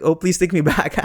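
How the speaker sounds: laughing through the plea; jokey, playful take; funny playful delivery. Shown as a demonstration. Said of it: "if you do it in a funny way".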